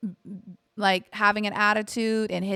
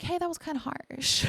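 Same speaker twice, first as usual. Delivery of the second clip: realizing it was harsh; 9 semitones higher, 6 dB quieter than usual. Retold or imitated. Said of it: "I was like".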